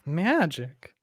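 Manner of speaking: surprised question. Real, not acted. Player doubting the GM's claim, surprised. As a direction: ask it startled.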